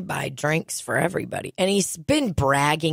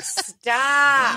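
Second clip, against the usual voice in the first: sharp shout; 8 semitones higher than usual. Retold or imitated. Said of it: "I'm like".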